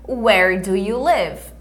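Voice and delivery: slow, clear teacher model; slow repeat-after-me. Shown as a demonstration. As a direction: model it slowly for the class.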